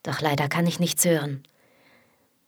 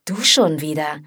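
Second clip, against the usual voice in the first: angry; 4 dB louder than usual. Acted. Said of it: "Markus' Stimme klingt wütend".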